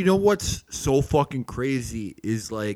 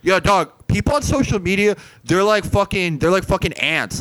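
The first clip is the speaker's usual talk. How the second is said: excited retelling; 6 semitones higher than usual. Acted.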